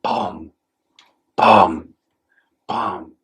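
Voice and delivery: spaced-out thuds, one at a time; imitated banging. Mom hearing kid bump down the stairs, imitated banging. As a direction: voice dull bumps with long gaps between. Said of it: "I would just hear banging".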